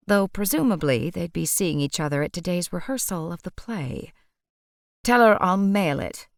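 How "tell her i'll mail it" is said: a curt, louder snap; snapped. Acted. Shopkeeper cutting Lucy off, snapping. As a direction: bite the words off short. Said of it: "he snapped".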